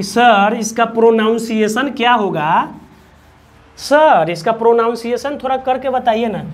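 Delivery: lightly voiced student pleading with "sir"; imitated pupil. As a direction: mimic a pupil asking, drawing out "सर". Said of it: "बहुत लोग प्रोनाउंसिएशन बोल देते हैं बच्चे कि".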